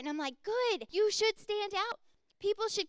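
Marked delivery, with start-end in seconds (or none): 0.4-2.0 high, loud, slow affirmation; proud retort. Retold or imitated. Answers people who call her peculiar, proud and loud. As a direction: own the difference proudly.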